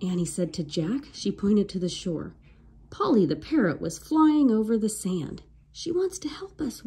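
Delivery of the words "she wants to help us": soft eager whisper. A narrator's reading. Annie whispers to Jack about the parrot. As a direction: whisper it so the pirates can't hear. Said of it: "whispered Annie".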